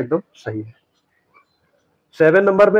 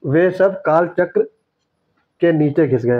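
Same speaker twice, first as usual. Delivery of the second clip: slow dictation; 3 semitones higher than usual. Shown as a demonstration. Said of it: "ये होना चाहिए था".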